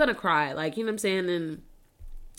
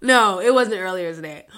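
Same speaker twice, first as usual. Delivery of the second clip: words through real tears; correcting herself while weeping; crying; 3 semitones lower, 5 dB louder than usual. Real, not acted. Laughing through tears about mom.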